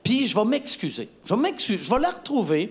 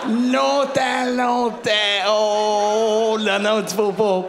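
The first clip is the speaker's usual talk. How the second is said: moaning; 3 semitones higher, 5 dB louder, much slower than usual. Acted. Drawn-out moan of pleasure.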